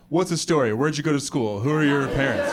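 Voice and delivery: the same questions, little awe; underwhelmed, everyday-pitched questions; unimpressed questioning. Acted. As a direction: ask with no amazement. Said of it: "If you have two languages here, people are like".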